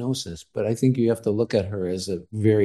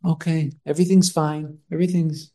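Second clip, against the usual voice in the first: higher-pitched voice of someone brushing it all off; imitated self-excusing deceiver; 8 semitones higher than usual. Podcast guest voicing the catfisher's thoughts, imitated self-excusing. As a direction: play her dismissing it as over and done. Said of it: "in her mind".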